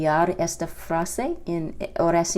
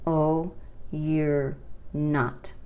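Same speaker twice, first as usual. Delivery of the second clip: slow contraction demo; much slower than usual. Shown as a demonstration. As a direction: draw out the contraction gently. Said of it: "es posible formar una contracción".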